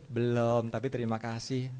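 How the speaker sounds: low, soft, polite admission; honest answer. Acted. Person stops short of lying about eating, honest answer. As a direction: drop the fib and admit it quietly. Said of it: "Batal bicara bohong".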